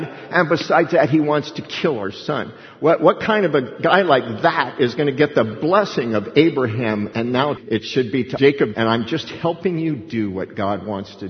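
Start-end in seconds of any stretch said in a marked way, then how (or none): 0.0-7.1 acted indignant argument, mildly raised; pressing the case as a wife; Rebekah piling on. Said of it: "And now she can add".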